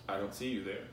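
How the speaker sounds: low, quiet aside to yourself; understated, low and detached; stoic. Acted. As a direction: play it stoic, keep it down. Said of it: "you stoically go".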